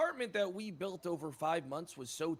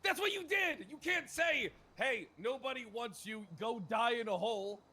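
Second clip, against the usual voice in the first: heated accusation; 3 semitones higher, 6 dB louder than usual. Acted. Heated betrayal argument.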